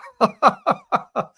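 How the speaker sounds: high, bursting laugh; helpless high-pitched cackle; real laughter. Real, not acted. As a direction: laugh out loud at your own folly. Laughs at his own foolishness.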